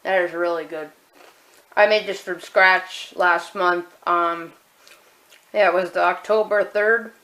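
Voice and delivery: talking through a mouthful of chips; chewing while talking; mouth full. Real, not acted. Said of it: "Sorry for talking with my mouth full".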